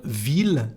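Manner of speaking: "ville" with a sounded L at the end; exception with L. Shown as a demonstration. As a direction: say "ville" as "veel". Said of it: "we have some exceptions".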